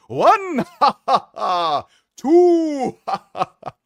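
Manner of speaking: high, loud bouncy Tigger cackle; Tigger laugh. Retold or imitated. Streamer does Tigger's laugh for chat, high and loud. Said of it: "It's Tigger".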